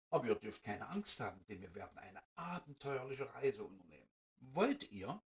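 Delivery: etwas tiefere, ruhige Feenstimme; beruhigend, wie eine gütige Fee; gute Fee. Acted. Fairy speaks to the mice. (Fee lädt die Mäuse ins Weihnachtsland ein, leicht tiefer und ruhig)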